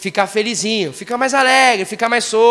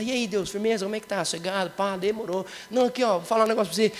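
casual chat with God; 5 dB quieter than usual. Shown as a demonstration. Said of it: "Vai falar".

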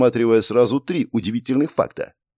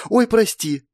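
startled cry; 12 semitones higher, slower than usual. A narrator's reading. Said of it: "Вскрикнув".

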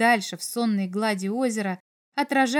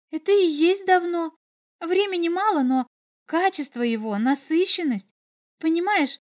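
a higher-pitched girl, lightly acted; lightly voiced earnest girl; 5 semitones higher than usual. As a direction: explain keenly in a lightly girlish voice. Girl explains in story.

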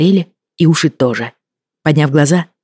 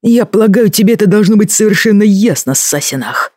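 through gritted teeth; 6 semitones higher than usual. A narrator's reading. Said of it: "процедил он сквозь стиснутые зубы".

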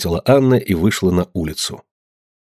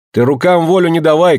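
a raised, higher cry; shouted warning; 7 semitones higher, 4 dB louder than usual. A narrator's reading. Daughter shouting at the mother who threw a tub, raised voice. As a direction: shout her off before she throws again. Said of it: "крикнула Анна".

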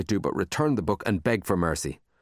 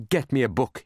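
higher-pitched plea; begging; 5 semitones higher than usual. Acted. Boy begging child with library card, pleading. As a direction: wheedle it a little. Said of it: "he begged".

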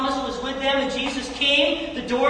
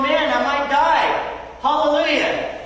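eager prisoner Paul; 2 semitones higher than usual. Retold or imitated. Preacher voicing Paul in a Roman prison, eager and slow. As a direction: savor each word like a man who can't wait to die. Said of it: "He's sitting there going".

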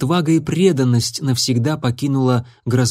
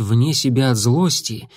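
plain reading voice

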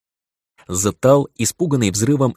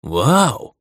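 amazed; 4 semitones higher, 3 dB louder than usual. Acted. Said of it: "изумился я".

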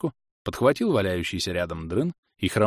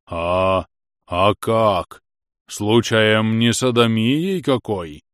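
loud, slow alarmed servant voice; frightened servant; 6 dB louder, much slower than usual. A narrator's reading. Scene: servant fears how he earned it, alarmed and slow. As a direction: blurt it out in sudden alarm. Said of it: "мелькнул ужас".

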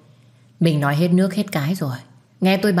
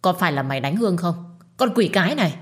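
angry accusation. Acted. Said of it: "nhìn tôi và quát lên".

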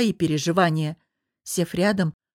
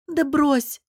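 higher, light, smiling dismissal; smiling reassurance; 7 semitones higher than usual. A narrator's reading. Lilya reassures her anxious friend, smiling. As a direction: wave the worry away with a smile. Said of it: "улыбнулась Лиля".

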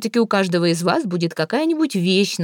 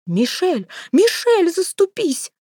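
much higher, panicked squeal; shrieking; 12 semitones higher, much slower than usual. A narrator's reading. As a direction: squeal for help, pitched up. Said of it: "взвизгнула вдова". (испуганно взвизгивает)

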